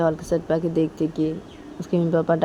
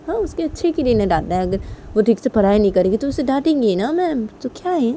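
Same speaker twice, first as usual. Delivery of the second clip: exasperated argument with high, loud bursts; punchy, raised-voice scolding; scolding father; 4 semitones higher, 5 dB louder than usual. Acted. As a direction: act out a dad telling his wife off. Father acted, scolding the mother.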